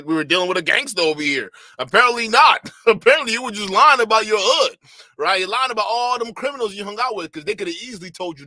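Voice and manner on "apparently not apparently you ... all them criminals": laughing mockery. Real, not acted. Mocking the guest, laughing.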